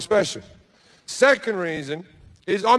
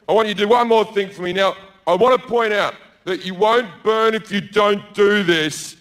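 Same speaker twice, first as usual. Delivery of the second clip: God voice. Acted. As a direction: play God fishing for praise. Comedian voicing God in bit.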